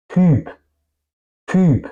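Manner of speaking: "Typ" with a rounded ü vowel, high and falling; Y como U alemana. Shown as a demonstration. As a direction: say "Typ" as "tüüp". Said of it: "se pronuncia un poco más como una U". ("Typ" con la Y como una ü)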